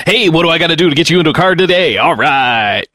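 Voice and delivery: fast, pushy sales pitch; car salesman voice. Acted. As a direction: sell him a car on the spot. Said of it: "Car salesman voice is much more like".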